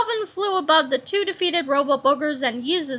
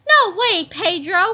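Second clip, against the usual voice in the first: high, loud cheeky refusal; cheeky cry; 3 semitones higher, 6 dB louder, slower than usual. A narrator's reading. Captain Underpants defying Melvin, loud. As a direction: shout it back playfully. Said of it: "cried Captain Underpants".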